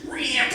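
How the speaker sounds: high, short crash noise; imitated ripping door. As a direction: mimic a door torn off its hinges. Imitates door ripped off hinges.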